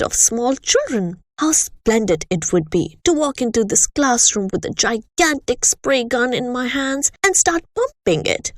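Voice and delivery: a bullying headmistress holding forth with disgust; lightly voiced harsh headmistress; the Trunchbull. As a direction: sneer at the children like a tyrant. Headmistress speaking to class.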